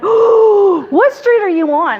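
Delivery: high, eager retold question; excited realtor. Realtor asking woman about her street, excited.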